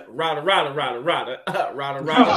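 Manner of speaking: a hint of a solemn sage chanting rada rada; mock wise quote. Quoting the wise man to the panel, half-laughing mock wisdom. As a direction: intone it like ancient wisdom, lightly. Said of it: "A wise man once said".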